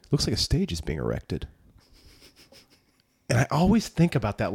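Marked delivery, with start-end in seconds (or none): 0.1-1.5 stiff line reading. Retold or imitated. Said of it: "Jeremy London goes".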